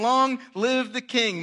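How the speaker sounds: firm, ringing. Shown as a demonstration. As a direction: proclaim it with confidence. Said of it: "imagine the first syllable".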